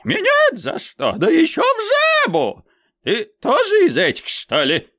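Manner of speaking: high, loud, flustered babble; frightened old man asking the witch, high and flustered; babbling old man. Acted. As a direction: sputter it out in panic. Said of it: "лопочет".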